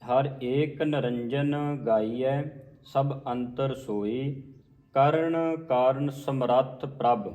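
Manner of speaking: slow, measured verse; scripture recitation. Acted. Teacher recites the verse slowly. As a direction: recite slowly with clear pauses.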